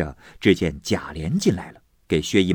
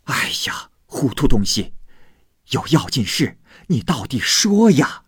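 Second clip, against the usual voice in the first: louder, higher, exasperated scolding of a dim servant; impatient snort; 5 semitones higher, 4 dB louder than usual. A narrator's reading. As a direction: snap at her to just spit it out. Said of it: "王夫人哼道". (不耐烦地斥责，声音偏高偏响)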